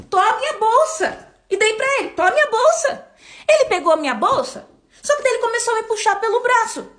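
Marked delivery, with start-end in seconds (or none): 0.1-1.3 higher, louder, slow panicked offer; retold fear, handing the bag to a robber; frightened plea. Handing over purse in panic. 2.1-3.1 retold fear, handing the bag to a robber; frightened plea. Handing over purse in panic.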